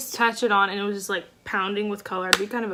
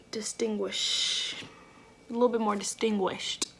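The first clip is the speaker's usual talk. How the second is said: whisper; 4 dB quieter than usual. Real, not acted. Concentrating while blending.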